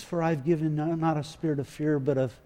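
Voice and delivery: hushed, peaceful reassurance. Shown as a demonstration. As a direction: settle the listener's fear softly. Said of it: "It's a language of peace".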